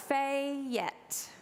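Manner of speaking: fat stretched into two syllables, "Fayette", Eastern Kentucky style; Eastern Kentucky accent. Shown as a demonstration. Showing the congregation her childhood Eastern Kentucky "Fayette". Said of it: "was how I said fat".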